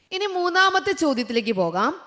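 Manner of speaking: ordinary delivery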